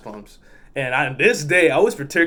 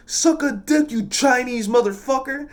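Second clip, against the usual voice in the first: high-pitched imitated insult; mock insulting retort; 10 semitones higher than usual. Parked driver insulting trucker, high mocking retort. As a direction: fling it back in a high put-on voice.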